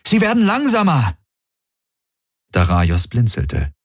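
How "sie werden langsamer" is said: urgent call. Acted. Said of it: "rief Galen".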